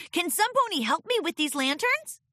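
high filly asking for help; pleading filly. Acted. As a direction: beg for help from a ladder. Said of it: "Scootaloo pleaded".

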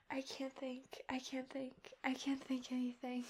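soft, dazed whisper. Real, not acted. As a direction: whisper it, barely there. Dazed after climax.

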